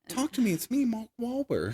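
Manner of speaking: put-on very high-pitched childlike voice. Describing Mark Wahlberg's science teacher role, with a high-pitched Mark Wahlberg impression. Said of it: "like high pitched".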